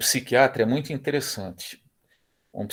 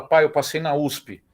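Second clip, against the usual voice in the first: excited son; 4 semitones higher, 6 dB louder than usual. Retold or imitated. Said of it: "pro filho nosso falar".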